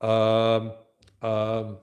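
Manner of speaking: drawn-out, level hesitation sound; demonstrated filler. Shown as a demonstration. Teacher showing what educated speakers avoid, drawn-out hesitation. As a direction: hum each filler as an example. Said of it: "they don't use".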